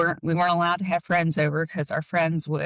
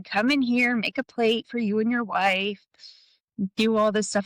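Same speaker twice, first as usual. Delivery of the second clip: higher-pitched retold coaxing; coaxing neighbor; 4 semitones higher than usual. Neighbor offering plates to get dad inside, coaxing. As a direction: imitate a neighbor herding someone indoors. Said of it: "trying to shuffle him in".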